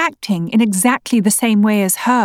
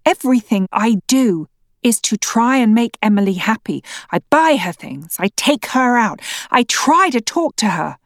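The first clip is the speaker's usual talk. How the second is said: incredulous anger; 4 semitones higher than usual. Acted. Wife shouting back in quarrel.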